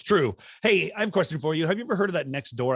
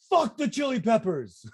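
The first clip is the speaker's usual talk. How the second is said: laughing mock curse; 9 semitones higher than usual. Mock outburst after door closes.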